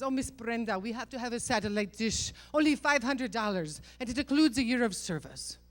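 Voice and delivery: imitating husband's Middle Eastern accent; light mock Middle Eastern accent, pitching a purchase. Husband talks wife into a satellite dish, Middle Eastern accent. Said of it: "I'm doing a Middle Eastern accent".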